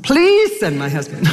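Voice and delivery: pleads again through a laugh; half-laughing begging prayer. Retold or imitated.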